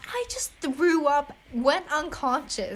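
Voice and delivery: slow, emphatic mock disbelief; indignant protest. Student answering the scolding teacher, indignant protest. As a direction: spell it out, affronted.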